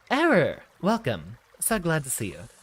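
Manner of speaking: high, loud cry of welcome; excited greeting. Real, not acted. Streamer hails an arriving viewer with a high, loud, excited call.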